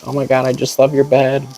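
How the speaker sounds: put-on high cutesy baby talk; little baby voice. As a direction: mimic her creepy childish gush. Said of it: "little baby voice".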